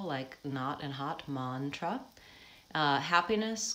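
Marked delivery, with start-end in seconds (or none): 1.3-2.0 "mantra" with an open ah like in hot; ah vowel. Shown as a demonstration. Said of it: "the ah has the ah vowel".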